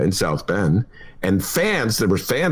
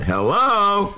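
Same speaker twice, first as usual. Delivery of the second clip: put-on Valley Girl hello; 10 semitones higher than usual. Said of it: "the person who originated that".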